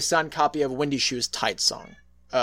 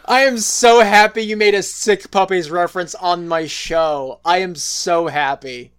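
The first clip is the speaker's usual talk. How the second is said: excited delight; 2 semitones higher, 6 dB louder than usual. Real, not acted. Thrilled by a band reference.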